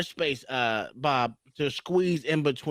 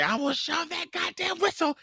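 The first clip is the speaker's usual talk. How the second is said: angry threat; 5 semitones higher than usual. Retold or imitated. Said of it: "I threatened her".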